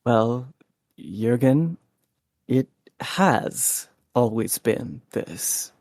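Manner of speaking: lightly voiced philosopher, pitched low; philosophizing character. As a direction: explain it in character, low with thoughtful pauses. Player answers Jürgen in character.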